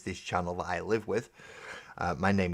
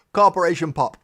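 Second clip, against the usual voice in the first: Corporation Pop; 10 semitones higher, 14 dB louder than usual. Shown as a demonstration. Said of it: "the best one I know of".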